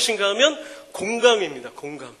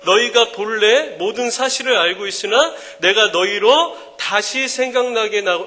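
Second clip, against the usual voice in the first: scripture reading; 4 dB louder, slower than usual. Shown as a demonstration. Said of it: "성경에도 이런 말씀이 있습니다".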